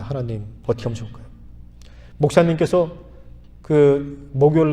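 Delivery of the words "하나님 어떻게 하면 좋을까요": retold quick prayer. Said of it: "제가 기도했습니다".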